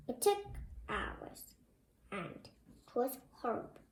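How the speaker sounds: soft dramatic dread; hushed gloom. Acted. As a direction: drop to a grim hush. Reading dramatically again.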